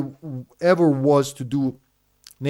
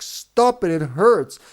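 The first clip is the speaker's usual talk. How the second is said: pleading with the cat; 4 semitones higher than usual. Retold or imitated.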